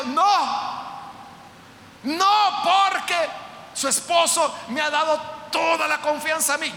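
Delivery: un no alto y tajante, casi gritado; firme negativa de José. Acted. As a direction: rechaza con fuerza, alzando la voz. José rechaza a la señora. (José rechaza a la señora en voz alta y firme)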